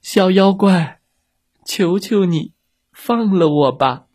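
high, begging voice; pleading whale. Acted. Whale begs the little monster from his belly, pleading. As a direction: plead for mercy. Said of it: "不停地哀求".

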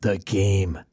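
low, calm radio announcer; deadpan public radio delivery. Acted. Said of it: "that's my, uh, public radio voice".

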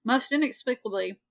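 talking around a piece of candy; candy in the mouth while reading; mouth full. Real, not acted. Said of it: "sorry, I'm eating a piece of candy".

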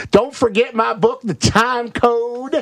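high slow mock sales voice; sneering imitation of self-promotion; hammed-up book plug. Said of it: "he went right back to".

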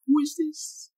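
high put-on Asian woman voice; squeaky caricature Asian woman. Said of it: "I did an Asian woman".

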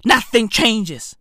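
each word slowed and weighted; slow heavy refrain; slow, deliberate. Acted. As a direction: drag it out for emphasis.

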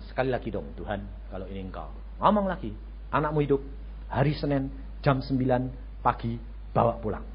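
soft whispered-low prayer; quiet prayer. Retold or imitated. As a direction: murmur the request softly under the breath. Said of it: "saya ngomong pelan-pelan".

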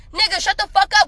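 fed-up rant at commenters; exasperated outburst. Real, not acted. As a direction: tell them off. Ranting at online arguers.

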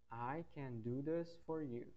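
slow model sentence. Shown as a demonstration. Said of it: "Um outro exemplo com for".

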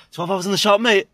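imitating a sudden Australian accent; full Australian. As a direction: go full Aussie for the quote. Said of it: "He just went full, like, like, Australian".

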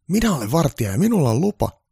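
high-pitched, loud security guard. Acted. Guard telling Santa he has no gun licence, high and loud.

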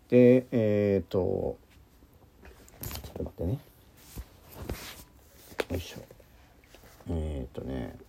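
breaking up, distant and faint; choppy line dropping out; bad connection. Real, not acted. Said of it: "途切れ途切れになってるかな".

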